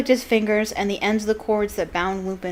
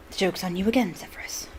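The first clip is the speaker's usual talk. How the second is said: snarled; 3 dB quieter, faster than usual. Acted. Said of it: "Black snarled".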